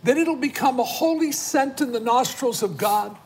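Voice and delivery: earnest, insistent intercession in measured phrases; fervent prayer. Real, not acted. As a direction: declare a prayer over the viewers. Prayer for families continues.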